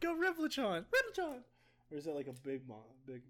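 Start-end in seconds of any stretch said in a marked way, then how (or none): 0.0-1.4 high excited summon; Pokemon trainer call. Pretend.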